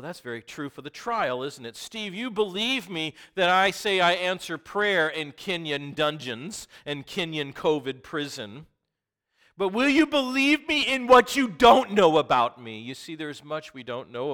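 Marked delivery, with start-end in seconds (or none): 1.7-12.8 voicing God, rising. Preacher voicing God to himself.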